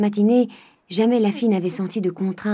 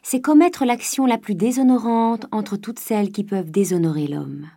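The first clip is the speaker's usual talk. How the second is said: louder, grave pronouncement; solemn condemnation; 3 semitones higher, 4 dB louder than usual. Acted. Father lecturing daughter on dishonour, loud and grave. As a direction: hammer home the disgrace.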